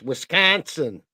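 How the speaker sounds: Wisconsin with the weight on the middle syllable, "kon", said as "wis-KON-sin"; stress on the right syllable. Shown as a demonstration. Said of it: "Gotta put the emphasis on the right syllable".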